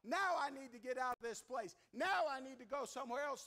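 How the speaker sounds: urgent, punched cry for help; calling out. Acted. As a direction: call out from torment, hitting each opening word. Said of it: "He is crying out".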